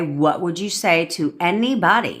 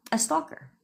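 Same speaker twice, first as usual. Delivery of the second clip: spooky punchline; 11 semitones higher, 8 dB quieter than usual. Acted. Punchline delivered in odd voice.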